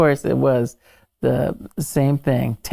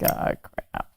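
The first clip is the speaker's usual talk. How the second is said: under-the-breath whisper; muttered to herself checking the shot; 6 dB quieter than usual. Retold or imitated. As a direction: breathe it so nobody hears. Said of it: "It's like".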